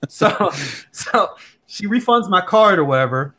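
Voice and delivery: normal talking voice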